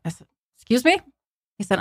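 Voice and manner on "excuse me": high-pitched incredulous question; retold startled query; taken aback. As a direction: react in disbelief, voice jumping up. Retold shocked reaction to confession.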